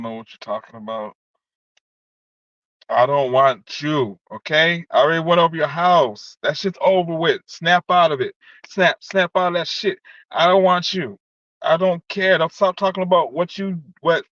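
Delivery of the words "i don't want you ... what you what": angry shouting. Real, not acted. Shouting at ex on stream.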